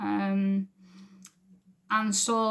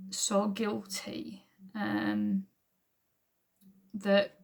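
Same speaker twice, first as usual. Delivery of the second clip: slow, breathy whisper of shame; much slower than usual. Real, not acted. Confessing her guilt to the congregation in a whisper. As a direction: let it fall to a slow whisper.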